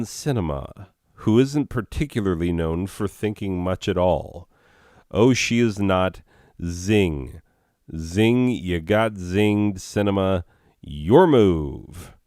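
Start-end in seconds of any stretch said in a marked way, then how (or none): 5.1-12.1 taunting zing. Real, not acted. Taunting the senator after the joke.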